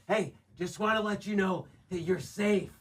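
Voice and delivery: calm her falsely; mock-gentle creepy stranger voice; creepy reassurance. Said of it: "you're like".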